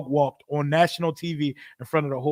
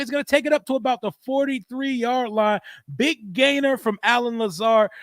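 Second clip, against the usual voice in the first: play-by-play; 2 semitones higher than usual. Acted. Streamer calling the Jets play for chat, excited play-by-play. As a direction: call the play like a TV announcer. Calls a live game play.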